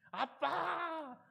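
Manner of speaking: high, stretched-out wail of 아빠 with a laugh; scared child's cry. Retold or imitated. Daughter carried into the sea, crying out to her father in panic. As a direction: cry 아빠 like a terrified little girl clinging to dad.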